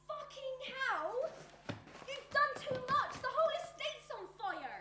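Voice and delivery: alarmed outburst. Acted. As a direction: cry out in horror at what's been done. Horrified at the arson.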